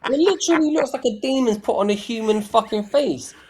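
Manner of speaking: amused, excited exclamation; laughing amazement. Real, not acted. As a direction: insist on it through real laughter. Cracking up at the picture.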